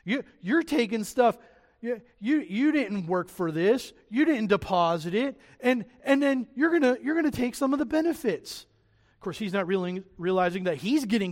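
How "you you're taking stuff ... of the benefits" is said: higher-pitched, stumbling complaint; ungrateful worker. Acted. Ungrateful servant complaining about the master's benefits, mildly acted. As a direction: act out a worker's grievance. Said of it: "sounds like an ungrateful worker".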